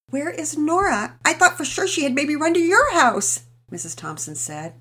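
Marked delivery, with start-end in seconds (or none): 0.1-3.4 distraught mother. Acted. Mother asking neighbour about missing daughter, distraught and high. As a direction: ask as if close to tears.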